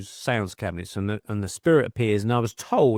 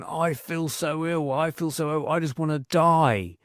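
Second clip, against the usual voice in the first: slow, slightly raised plea of a sick man; ailing husband's lament; 4 semitones higher, slower than usual. Retold or imitated. Widow quoting her bedridden husband, slow lament. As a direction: imitate a weary invalid's complaint, drawn out. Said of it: "he just kept saying".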